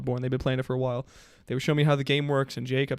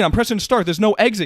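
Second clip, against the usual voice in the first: mock panicked yelling; 6 semitones higher, 6 dB louder than usual. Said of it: "just screaming at each other".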